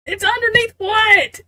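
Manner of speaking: high-pitched startled question; real baffled surprise; incredulous. Real, not acted. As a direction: ask it in disbelief, pitch shooting up. Startled by what the reading says.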